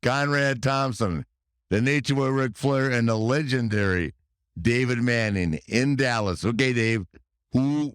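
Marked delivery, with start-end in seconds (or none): 0.0-6.4 lightly hammed-up show host introduction; announcer intro. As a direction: present the guests like a ring announcer.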